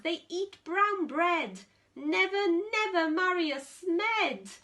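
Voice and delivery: a hint of shocked elders forbidding it; mock-outraged warning to a child; scolding grandparents. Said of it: "what do you think their grandparents said".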